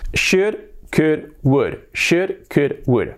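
"should, could, would" as rhyming words, no L; pronunciation drill. Shown as a demonstration. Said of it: "Practicarlo para que os salgan los tres bien". ("should, could, would" sin la L)

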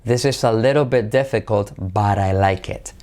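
"little" with a tapped R, "ledero"; soft R for T. Shown as a demonstration. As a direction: tap the T in "little" like a soft Spanish R. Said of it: "letra semiclave T como R suave".

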